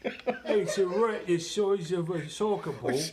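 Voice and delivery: loud, high Cockney put-on; hammed-up Cockney, drawn out; slow, boisterous fake Cockney; mock Cockney accent. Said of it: "like, a Cockney accent".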